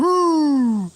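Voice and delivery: high, loud mock dog yelp; imitating the dog. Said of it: "Talking about some".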